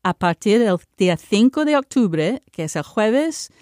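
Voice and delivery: announcement read in Spanish with a Spanish accent; Spanish speech. Shown as a demonstration. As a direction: deliver the news in Spanish, lively and clear. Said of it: "I just wanna speak in Spanish".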